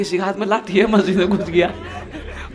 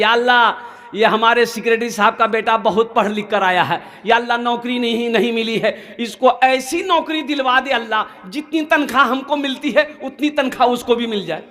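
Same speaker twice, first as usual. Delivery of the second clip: raised, intoned mock prayer; imam's supplication. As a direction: plead to God as an imam leading dua. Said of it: "इमाम साहब ने दुआ के लिए हाथ उठाया". (इमाम की दुआ का अभिनय)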